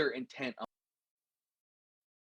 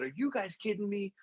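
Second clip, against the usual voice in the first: angry outburst; 5 semitones higher than usual. Retold or imitated. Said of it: "He slammed his hand down".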